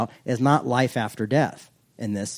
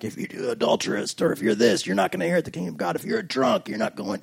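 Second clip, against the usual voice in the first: mocking preacher quote; 7 semitones higher, 4 dB quieter than usual. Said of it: "I've heard, like".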